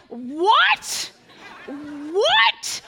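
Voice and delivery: loud, high, frantic shrieking; a loud comic panic, squealing in disbelief; panicked freakout. Pretend. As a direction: freak out like a terrified teen. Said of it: "I would have been like".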